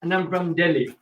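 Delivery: mock Indian accent. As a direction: play an Indian visitor introducing himself, lightly. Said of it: "He doesn't talk like this usually".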